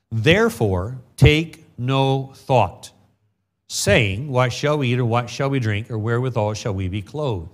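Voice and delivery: slow, measured Bible reading; solemn King James reading; scripture reading. Acted. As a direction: read the verses with weight. Rereading the verse slowly.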